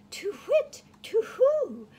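frightened owl hooting before flying off. Acted. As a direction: hoot like a startled owl. Owl hoots in alarm.

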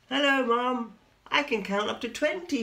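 high, loud proud little spider. A narrator's reading. Spinderella boasts to Mum in a high voice.

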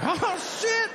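very high-pitched panicked squeal; mock panic. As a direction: jump way up high in comic alarm. Panics on seeing his megadosed mother.

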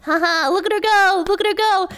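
a hint of a tickled fan cheering along; amused viewer. Streamer imitating viewers enjoying the stream, amused mock viewer.

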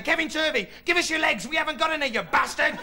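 high-pitched chanting slug creatures; menacing slug monsters. Acted. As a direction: call out as an advancing monster slug. Giant slugs advance on him shouting demands.

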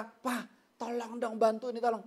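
pleading wife. Retold or imitated. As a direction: imitate a wife calling on her husband. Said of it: "Istrimu berkata".

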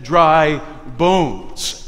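dry leaned on, falling; stress on dry. Shown as a demonstration. Preacher stressing dry to the congregation. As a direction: put weight on the word dry. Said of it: "Emphasis on the dry".

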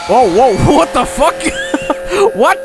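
a loud, high startled yelp with a laugh; startled shout. Real, not acted. Streamer yelping at a jump scare in the basement. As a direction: blurt it as the scare hits.

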